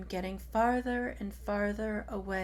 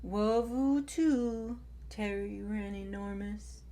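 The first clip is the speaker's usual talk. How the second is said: tender reply. Acted. Tai answers tenderly.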